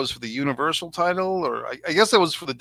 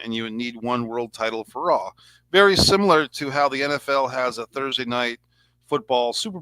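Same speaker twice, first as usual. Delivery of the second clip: sarcastic. Acted. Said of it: "that's my sarcasm there".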